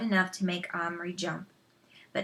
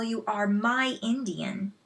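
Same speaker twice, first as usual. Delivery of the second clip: reasonable tone. Acted. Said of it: "in a very reasonable tone".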